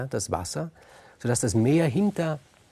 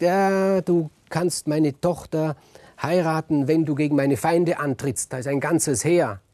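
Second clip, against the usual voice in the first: horrified king; 5 semitones higher, 4 dB louder than usual. Acted. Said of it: "ist entsetzt und sagt".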